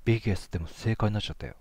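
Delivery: fast amused chatter; laughing at the lucky pass; amused, rushed. Real, not acted. Amused the wrong word passed.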